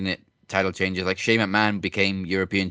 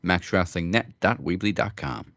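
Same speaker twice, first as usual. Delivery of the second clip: upbeat show announcer read; podcast host read. Acted. Show outro read over music.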